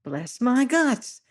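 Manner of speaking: a plump sailor cooing high and drawn out; high fluting voice of a fat seaman; high-pitched voice. Acted. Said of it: "says the fat man".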